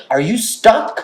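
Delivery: high, baffled pet-talk; incredulous question. Retold or imitated. Owner looking at meowing cat, high incredulous voice. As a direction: ask the cat in mock disbelief.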